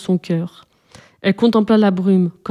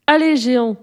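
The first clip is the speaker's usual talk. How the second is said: mild shout; 4 semitones higher than usual. Acted. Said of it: "cria-t-elle dans la brume".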